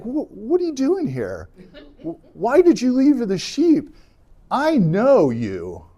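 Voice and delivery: put-on angry older brother. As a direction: demand it like an annoyed sibling. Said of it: "he gets angry".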